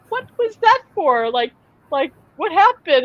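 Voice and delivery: put-on a toddler stunned that a kid stuck out his tongue; hurt, puzzled little boy. Son asking mom after a boy was mean, high and confused. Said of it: "my son just went".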